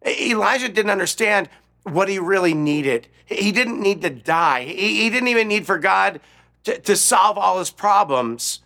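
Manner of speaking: high, loud and emphatic; fervent, urgent sermon delivery; impassioned preaching. Real, not acted. Impassioned preaching after Elijah's cry.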